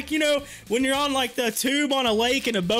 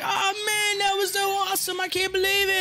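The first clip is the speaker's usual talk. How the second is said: higher, excited friend voice; hyped friends; 6 semitones higher than usual. Retold or imitated. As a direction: imitate friends gushing over the jump.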